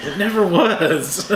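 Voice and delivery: slow, laughing deadpan line; mock Mantis deadpan. Quoting Mantis again, slow amused deadpan. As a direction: drag it out dry while laughing. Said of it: "The greatest movie ever".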